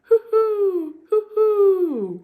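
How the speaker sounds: high, loud hooting owl call. Shown as a demonstration. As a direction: hoot like an owl for the kids. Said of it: "They go".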